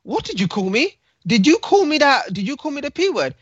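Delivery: can't believe what he just heard; young lad stunned at the slur, disbelieving; incredulous. Retold or imitated. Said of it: "the young guy is quite incredulous".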